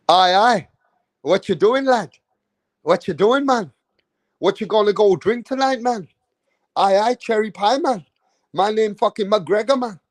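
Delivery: lightly put-on Irish accent, a bit Scottish; joking, half-hearted Irish brogue mimicry; McGregor Irish accent. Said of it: "I fucking sound like a fucking, uh, Scotsman".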